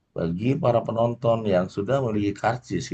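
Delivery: rising and falling announcer melody; cinema announcer intonation. Shown as a demonstration. Teacher demonstrating cinema announcement with lively intonation. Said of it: "pakainya intonasi kata".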